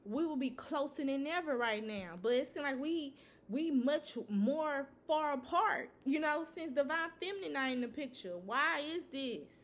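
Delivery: voicing an exasperated karmic partner, pitch lifted toward the end; fed-up complaint. Karmic partner fed up with divine masculine, exasperated complaint. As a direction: act out frustrated bewilderment.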